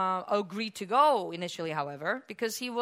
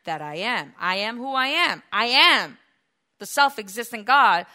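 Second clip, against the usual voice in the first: voice of God; 8 dB louder than usual. Acted. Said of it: "So that's where God says".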